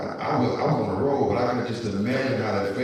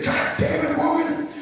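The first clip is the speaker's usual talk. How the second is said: high, loud hammed-up telling-off; mock scolding rant; 14 semitones higher, 4 dB louder than usual. Host imitating the councilman scolding a woman. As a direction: scold the woman, half joking. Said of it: "He says".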